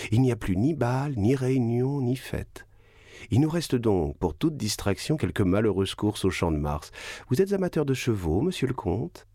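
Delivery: voix de baronne mondaine, légèrement plus aiguë. Acted. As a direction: jouer une baronne qui se plaint de Paris avec dédain. La baronne parle au comte. (baronne légèrement plus aiguë, ton mondain)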